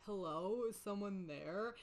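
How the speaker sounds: flat, quiet and slow; dead monotone. Retold or imitated. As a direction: ask with no feeling at all. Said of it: "super dead voice".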